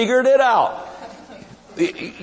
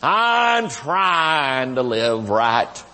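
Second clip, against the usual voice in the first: slow, drawn-out pleading testimony; whiny churchgoer testimony; 2 semitones lower, slower than usual. Retold or imitated. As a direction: imitate a tired churchgoer pleading his efforts. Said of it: "and they'd say".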